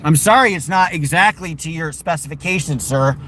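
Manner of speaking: bow and scrape with heavy sarcasm; sarcastic apology. Acted. Mock apology to spoiled dog.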